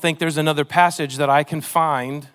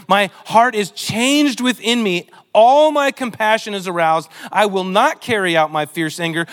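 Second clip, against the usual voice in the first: emphatic scripture reading; 3 dB louder than usual. Acted. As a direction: lean into every phrase with weight. This is God speaking through Hosea.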